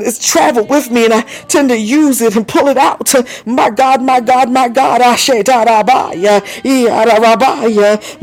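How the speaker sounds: testimony swelling into praise; charismatic, driving sermon cadence; fervent preaching. Real, not acted. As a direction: preach it with mounting zeal, stretching the tongues. Preaches between bursts of praise.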